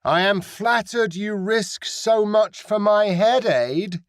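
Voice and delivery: mocking pirate captain hailing across the ship; pirate captain calling. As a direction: call across the water as a sly woman pirate. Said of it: "She called in accented Aideen".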